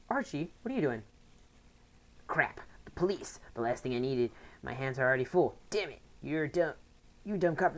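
lightly voiced angry rival; a hint of a hot-headed gang leader; voicing a rival. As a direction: read the rival's lines with mild annoyance. Reads rival's in-game dialogue.

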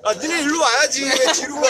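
yelling across the room. Real, not acted. Host calling kids who back away.

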